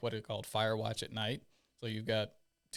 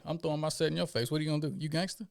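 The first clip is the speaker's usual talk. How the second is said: higher, louder provoking challenge; taunting instructor; 5 semitones higher, 4 dB louder than usual. Retold or imitated. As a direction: dare him to make a move. Instructor taunting gang recruit.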